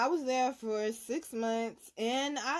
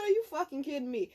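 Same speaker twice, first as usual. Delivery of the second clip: angry retort; 5 semitones higher, faster than usual. Retold or imitated. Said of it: "I went the fuck off".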